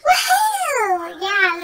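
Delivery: high-pitched whooping cheer, easing down; really high. Real, not acted. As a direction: let out a very high woohoo. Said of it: "that was really high".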